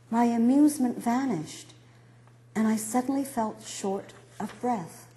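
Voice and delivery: measured memoir reading with deliberate pauses; literary reading. Acted. Author reading about her mother's failing memory, literary narration. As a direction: read each phrase carefully, letting it settle.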